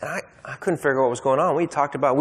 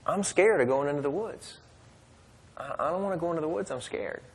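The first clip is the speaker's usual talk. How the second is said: put-on scared child; 4 semitones higher, 6 dB quieter than usual. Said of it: "he started crying".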